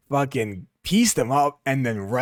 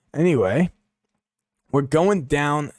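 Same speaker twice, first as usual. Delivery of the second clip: bad impression; 3 semitones higher, 4 dB louder than usual. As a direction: drag the words out in a mock impression. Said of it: "shit impression".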